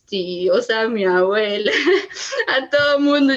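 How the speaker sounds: laughing through tears; a real teary laugh breaking in; a laugh caught between tears. Real, not acted. Recalling begging relatives for money.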